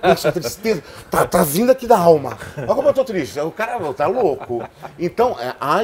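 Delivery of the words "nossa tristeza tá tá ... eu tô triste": exaggerated fake sadness that builds louder; mock sadness. Shown as a demonstration. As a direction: overplay a sad line like a bad actor. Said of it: "chegar e falar assim".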